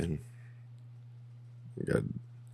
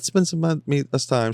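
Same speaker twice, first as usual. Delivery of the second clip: mock husband pleading; 8 semitones higher than usual. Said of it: "He said".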